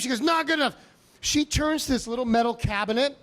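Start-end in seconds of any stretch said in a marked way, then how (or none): 0.2-0.8 stern nurse. Retold or imitated. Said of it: "She was pissed for some reason".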